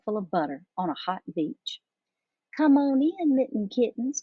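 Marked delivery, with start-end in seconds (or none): 2.6-4.2 higher, projected call. A narrator's reading. Mama calls her kittens in for cocoa, calling out. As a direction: call the little ones indoors. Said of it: "called out Mama Junebug Jones".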